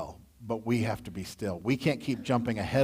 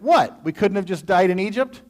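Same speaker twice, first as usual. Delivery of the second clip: loud, high mock whining; high, loud hammed-up grumbling; whining Israelites; 7 semitones higher, 5 dB louder than usual. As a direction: overdo the panicked complaining crowd. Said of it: "they went".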